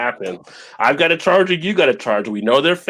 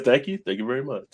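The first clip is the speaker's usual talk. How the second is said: a singer; 6 dB quieter than usual. Retold or imitated. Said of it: "I'm Baby" a singer.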